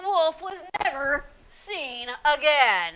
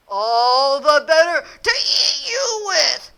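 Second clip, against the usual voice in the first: louder, slow growling wolf with a laugh; menacing wolf; 7 dB louder, slower than usual. Acted. Wolf reveals himself and threatens the girl. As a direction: pounce with the punchline.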